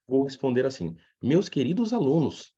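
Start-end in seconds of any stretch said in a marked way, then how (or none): 1.2-2.5 mildly hammed-up courteous address, raised pitch; patient and courteous. Teacher answers his dear students, patient and courteous. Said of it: "pacientemente e de uma forma muito cortesa".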